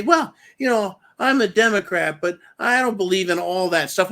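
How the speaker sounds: mock Democrat. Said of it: "You can't say".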